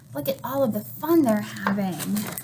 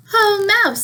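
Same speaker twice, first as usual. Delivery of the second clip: Hare voice; 8 semitones higher, 5 dB louder than usual. Acted. Hare greets Mouse in story.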